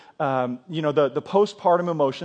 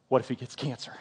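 disbelieving echo; 4 semitones lower, 7 dB quieter than usual. Retold or imitated. Husband repeating his wife's fear back, laughing disbelief. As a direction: repeat her words with a stifled laugh. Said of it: "I'm like".

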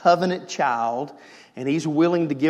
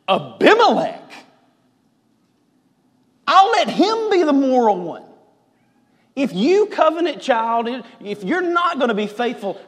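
higher, louder divine promise; voice of God; 7 semitones higher, 5 dB louder than usual. Acted. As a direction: declare it with bold divine resolve. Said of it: "he goes".

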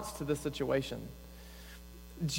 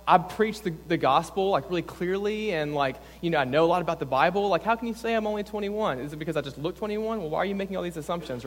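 defensive; 3 semitones higher, faster than usual. Retold or imitated. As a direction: rattle off excuses like an offended young pastor. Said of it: "I immediately get defensive".

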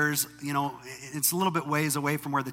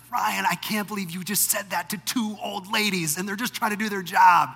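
higher, scolding wife voice in disbelief; wife scolding husband over rude words, higher and disbelieving; embarrassed wife; 4 semitones higher than usual. Retold or imitated. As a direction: voice the wife, mortified and reproachful. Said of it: "she's embarrassed".

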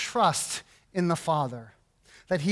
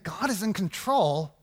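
skeptical echo; 4 dB quieter than usual. Retold or imitated. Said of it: "And I think".

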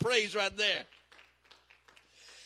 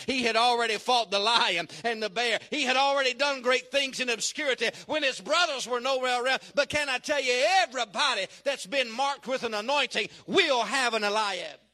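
emphatic pulpit delivery, a little raised; forceful preaching; 4 dB louder than usual. Real, not acted. Preacher assures the congregation about the anointed, forceful preaching. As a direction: preach it with rising conviction.

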